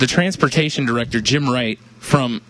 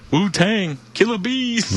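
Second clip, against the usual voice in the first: hyped callout; 9 semitones higher, slower than usual. Acted. Wu-Tang chant callout.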